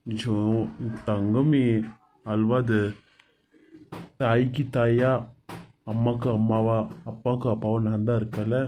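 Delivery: tender comfort. Acted. Husband comforting crying wife.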